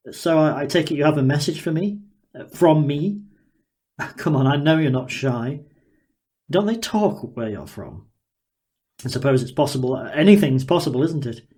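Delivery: a hint of a gleeful, curious inventor sizing her up; Daniel, eager scientist. Daniel marvelling at the girl before him, lightly voiced and eager.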